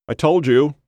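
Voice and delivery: high, taunting ghostly voice; high-pitched I-told-you-so; Ken. A narrator's reading. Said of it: "He recognized Ken's voice".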